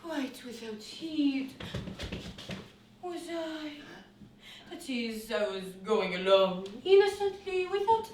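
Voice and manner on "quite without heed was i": slow recital. Shown as a demonstration. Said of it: "A natural way of speaking".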